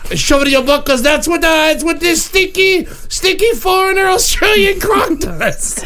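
lightly voiced dim caveman, talking about himself; a hint of a brute barbarian making threats; barbarian Croc. A host playing Croc lightly as a dumb brute, telling the panel his rule on smelly people. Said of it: "Croc is now subbing in".

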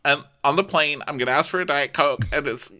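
high, whiny self-pitying voice; high sing-song lament; mock gloomy speech. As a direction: whine it like a dramatic defeatist. Imitating Casey's gloomy speech.

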